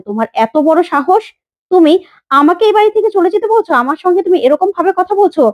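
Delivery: outraged at being told to leave; angry rebuke. Acted. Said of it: "রেগে যায়".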